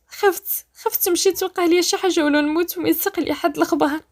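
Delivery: fearful. Acted. Rania begs Badr to stand by her, fearful. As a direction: plead with a touch of fear. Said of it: "بنبره فيها الخوف".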